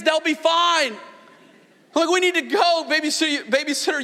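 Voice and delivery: high, impatient rush to get out the door; hurrying the wife past the babysitter; eager to leave. Retold or imitated. Husband urging wife to leave for date night, high and impatient.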